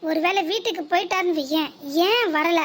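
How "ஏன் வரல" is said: a touch of pouty mock scolding; playful mock anger. Shown as a demonstration. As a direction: sulk at him sweetly, half cross. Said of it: "செல்லமா கோவப்படுற மாதிரி கோவப்படு".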